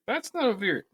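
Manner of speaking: indignant correction. Retold or imitated. Mocking co-host's word choice.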